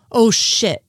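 quick, punched "oh, shit" of disbelief; shocked. Acted. Frohike grasps what Mulder means, shocked. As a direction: blurt it out in dismay.

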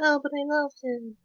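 high, soft swooning doll voice; lovestruck Tiffany. Retold or imitated. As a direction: gush it like a smitten doll. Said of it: "she's like".

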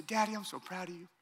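a hint of a three-year-old parroting back "Daddy, I'm so proud of you."; little son echoing. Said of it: "He'll say".

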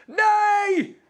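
high-pitched, drawn-out cry, no real volume; mock cry of denial. Preacher acting out Petrus denying his Lord, high mock yell. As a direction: imitate a panicked yell of refusal. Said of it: "schreeuwde hij".

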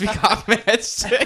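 talking through laughter; giggling mid-sentence; laughing. Real, not acted. Laughing at sick cohost.

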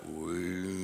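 soft, low sustained "woo"; imitated eerie atmosphere. Describing the church getting out of control, soft woo. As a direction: hum the tension building quietly. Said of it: "you can feel the atmosphere is like".

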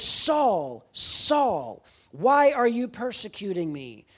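God's loud call to a man lying in the dirt. Retold or imitated. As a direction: call his name down from the clouds like God. God calls Saul from clouds.

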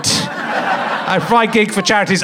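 slow mocking echo; mock self-importance. Comic teasing audience member's good deeds, mock pride. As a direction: parrot it back as a mild boast. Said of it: "Don't make it look like you're good".

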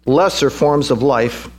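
"lesser" drawn out slowly and deliberately; slow down and weigh the word "lesser"; stress on LESSER. Real, not acted. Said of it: "I emphasize that word lesser".

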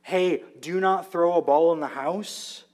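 put-on mild scolding of a child; a light parent's warning tone; parental scolding. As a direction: parent rebuking children, firm but mild. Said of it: "you can rebuke your children".

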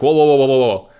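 halting someone mid-move in a retold protest; alarmed whoa. Opponent stops him at the table.

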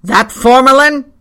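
high, loud shout through a door; piping bawl. A narrator's reading. Pyecraft calls from behind his door, piping bawl. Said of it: "piping bawl from inside the door".

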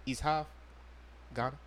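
put-on lightly kept African accent, laughing at times. Host insists to friends he is from Ghana, light African accent. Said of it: "You sound African right now".

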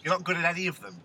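a light, put-on Phil Jones accent; mock the footballer in a Phil Jones accent; half-hearted Phil Jones accent impression. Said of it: "It's clearly Phil Jones's accent".

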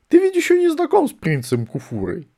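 high, loud booming wizard; booming Archchancellor. A narrator's reading. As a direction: boom it from behind. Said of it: "загромыхало сзади". (громыхающий голос аркканцлера)

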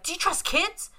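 high-pitched imitated child; earnest kid voice. Quoting a genuine kid line from Dolls, child voice. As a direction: ask it like a very sincere little girl.

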